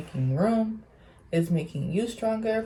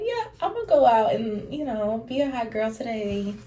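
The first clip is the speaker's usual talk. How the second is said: put-on excited hot girl plan; 4 semitones higher than usual. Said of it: "I'm like".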